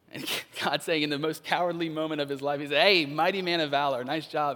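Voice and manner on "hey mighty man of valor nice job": cheery louder hey, almost teasing; breezy mock praise. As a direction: hail him like a buddy, half joking. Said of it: "Are you making fun of me?".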